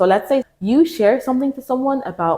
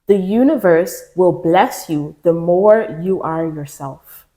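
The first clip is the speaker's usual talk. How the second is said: sincere emphasis; slower than usual. Real, not acted. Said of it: "I'm telling you now".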